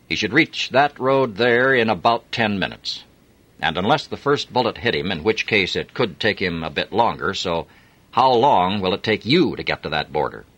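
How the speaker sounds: a lightly voiced officer giving calm orders; measured, menacing commander; cold Russian officer. Romanoff coolly quizzing his chauffeur, lightly voiced menace.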